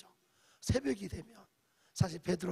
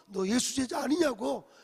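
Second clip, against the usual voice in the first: accusing question; 5 semitones higher, 8 dB louder than usual. Retold or imitated. Servant asks third time.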